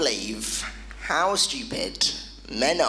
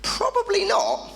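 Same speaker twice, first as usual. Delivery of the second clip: laughing aside; 8 semitones higher than usual. Retold or imitated. Inner thought, laughing.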